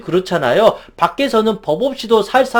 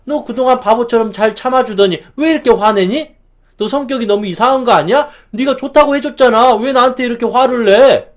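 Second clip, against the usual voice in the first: acted indignant comeback, rising higher toward the end; mock reproach; 3 semitones higher than usual. Friend attacking the one who finally got angry, mock reproach. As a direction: play an offended friend turning the blame back. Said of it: "그런 식으로 오히려 더 공격할지".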